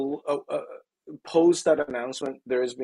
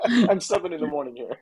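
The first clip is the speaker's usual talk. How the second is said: laughing; 5 semitones higher than usual. Real, not acted. Joking about drinking coffee.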